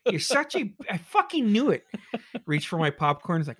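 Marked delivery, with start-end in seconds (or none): 0.1-1.8 high, loud, laughing accusation; gleeful shout. Real, not acted. Viewer yelling at the revealed killer, high and gleeful.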